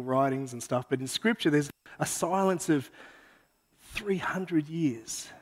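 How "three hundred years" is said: whisper. Acted. Dramatic hush about silence.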